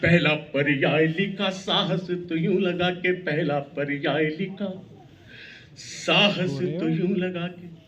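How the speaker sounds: rhythmic, declaiming verse; poem recitation. Acted. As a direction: recite it like a stage poet.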